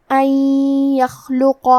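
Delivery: ان یخلق with the n merged into the ya and nasalized; slow ان یخلق, nun blended into یخلق with a nasal hum; tajweed demo. Shown as a demonstration. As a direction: model idgham in ان یخلق. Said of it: "نون ساکن کو یا میں ملا کے غنہ".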